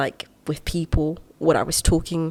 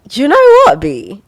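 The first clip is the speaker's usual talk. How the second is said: self pep talk; 10 semitones higher, 9 dB louder than usual. Retold or imitated. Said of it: "I was just like".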